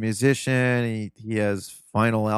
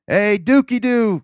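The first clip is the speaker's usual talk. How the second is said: much higher, slow, sing-song imitation of grandpa; grandpa's phone greeting; 11 semitones higher, 7 dB louder, slower than usual. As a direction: stretch out the nickname like a cheerful old man. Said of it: "and he's like".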